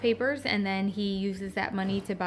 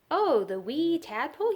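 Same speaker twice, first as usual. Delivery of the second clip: Scottish uncle; 6 semitones higher, 4 dB louder than usual. A narrator's reading. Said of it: "he said".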